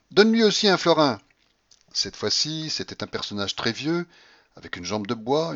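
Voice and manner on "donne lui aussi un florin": high, loud command; shouted order. A narrator's reading. Grandmother orders alms for another beggar, shouting. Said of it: "criait la babouchka".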